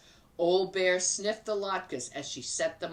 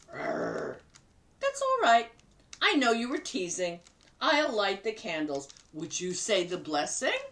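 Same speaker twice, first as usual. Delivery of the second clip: higher, cheerful grandmother voice; grandma Bubba; 3 semitones higher than usual. Acted. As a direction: play the kindly grandma talking to her guest. Bubba speaks to bear.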